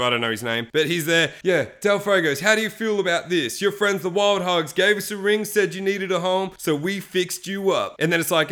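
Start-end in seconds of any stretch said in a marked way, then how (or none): 1.4-8.0 lightly imitated TV host, pitched up; makeover show host. TV host surprising a homeless family, lightly voiced presenter. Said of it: "it's the guy from Extreme Makeover".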